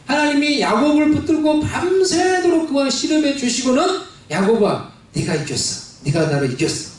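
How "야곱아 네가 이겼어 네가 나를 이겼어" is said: God speaking. Acted. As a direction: tell Jacob he won, low and tender. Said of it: "라고 이렇게 말씀을 해 주시는 거예요".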